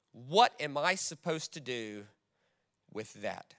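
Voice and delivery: lightly voiced listener pushing back, hushed; doubting listener. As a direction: speak it as the wounded person in the pews. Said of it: "somebody in the room that would be thinking this".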